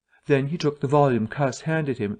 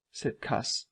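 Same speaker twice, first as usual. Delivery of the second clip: plain reading voice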